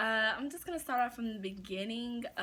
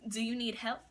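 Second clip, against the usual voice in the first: mildly innocent offer of help; innocent and sweet. Retold or imitated. Cashier offering customers help, mildly innocent and sweet. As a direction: ask it like sweet little me, understated. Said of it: "Innocent, sweet little me".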